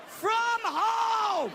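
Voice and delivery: high, loud indignant yell; outraged shout. Real, not acted. Comic outraged at the elf costume request, shouting. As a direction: shout it in disbelief.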